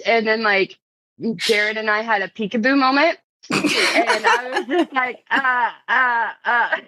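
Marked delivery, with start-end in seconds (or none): 5.3-6.8 2 retold choked sobbing stammer; 3 stutter like tears are coming; 1 mock sob. Overwhelmed retelling meeting Jared.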